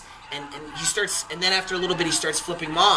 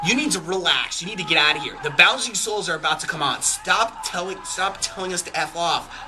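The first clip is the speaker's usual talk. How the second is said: imitated exasperated scolding, somewhat raised pitch; pissed off musician; 3 semitones higher than usual. Lead singer to a drunk heckler, retold irritated scolding. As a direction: tell off a troublemaker, hammering the key words. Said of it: "from a pissed off musician".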